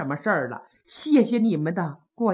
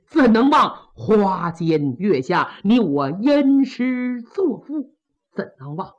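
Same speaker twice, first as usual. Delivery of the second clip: mournful lament. Acted. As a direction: mourn the brother-in-law at the coffin, with a touch of a sob. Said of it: "看着棺椁是放声痛哭".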